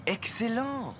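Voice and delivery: a sudden happy idea; excited. Real, not acted. Dad gets an idea. (s'exclamer, enthousiaste)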